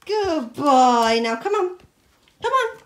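loud, high dog-calling; excited praise. Real, not acted. Owner calling dog back with bone, high excited praise.

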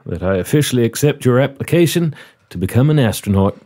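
put-on courteous Southern-accented interviewer; genial southern commander. Commander offers the applicant a seat, genial southern role. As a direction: play a hospitable commander running an interview.

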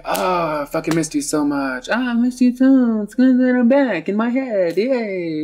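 high, whiny fake sobbing reunion; hammed-up tearful squeal; mock crying. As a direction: wail it as weepy old lovers. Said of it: "the old people cry".

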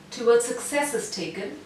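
"towards success is taken" at an even middle pace; moderate pace. Shown as a demonstration. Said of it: "this is moderate".

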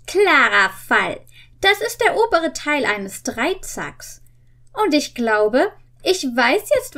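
lightly voiced clever boy detective; a hint of a know-it-all teen; Justus voiced. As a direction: read it as a confident young sleuth. Reads Justus in story voice.

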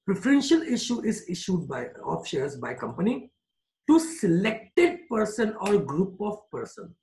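each word spaced out slowly for note-taking; slow dictation. Shown as a demonstration. Teacher to class, dictating a definition slowly.

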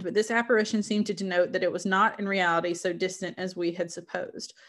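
measured, literary read-aloud; story narration. Acted. Reader sharing Frankenstein with listeners, story narration. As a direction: read it as an explorer's letter, evenly phrased.

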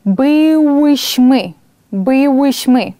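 slow Polish, leaning on the hard y in Byłyśmy; slow model pronunciation. Shown as a demonstration. Teacher modelling Polish for students, slow and clear. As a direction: spell the sound out slowly for the class. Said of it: "Така голосна и".

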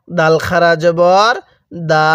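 slow recitation, final "দা" held long; one-alif stretch. Shown as a demonstration. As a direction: spell out "দাল খারা জবর", pause, then stretch "দা". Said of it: "এক আলিফ টান দিব".

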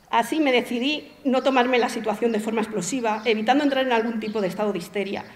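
even, composed literary narration; story reading. Acted. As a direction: read your own story aloud to an audience. Reads own short story aloud.

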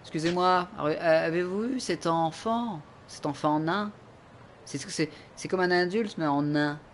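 hammed-up polite detective.

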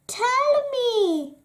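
high, loud, eager plea; excited begging. A narrator's reading. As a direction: beg for it with excitement. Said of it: "she begged excitedly".

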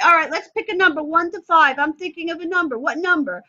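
put-on pep up the kid like a game; game-show excitement. Shown as a demonstration. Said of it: "So then I say".

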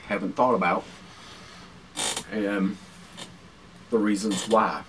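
talking through a mouthful of food; chewing while talking, mouth full. Real, not acted. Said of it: "I'm going to talk with my mouth full".

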